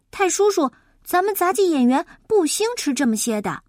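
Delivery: put-on eager boy. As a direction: gently correct your elder. Boy interrupts politely.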